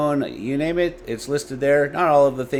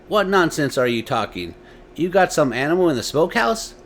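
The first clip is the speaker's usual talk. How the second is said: lightly annoyed father, higher; impatient father; 6 semitones higher, 3 dB louder than usual. A narrator's reading. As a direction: scold the child's nonsense.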